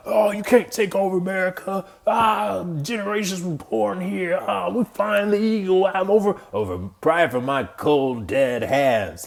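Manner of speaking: high-pitched, hammed-up flag-waving American; mock American patriot. Mocking Americans who guard their own land, hammed-up high patriot voice. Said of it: "You'd be like".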